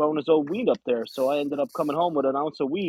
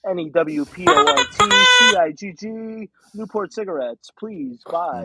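mock ad read; 5 semitones higher, 6 dB louder than usual. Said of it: "you'd be like".

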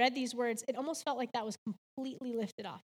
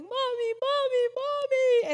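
higher, louder calls of Mommy, drawn out and slow; imitating son screaming; 10 semitones higher, 6 dB louder, slower than usual. Mom retells her son calling from his bed, mock screaming. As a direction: call out like a scared child in the monitor. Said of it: "he's screaming".

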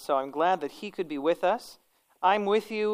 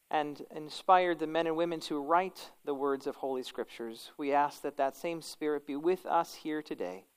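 prayer; 2 semitones lower than usual. Acted. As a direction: pray it gently and earnestly. Leads the class in prayer.

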